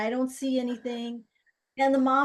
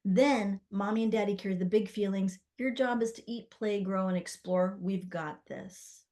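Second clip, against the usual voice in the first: reassuring. Shown as a demonstration. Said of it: "just like you're talking to a friend".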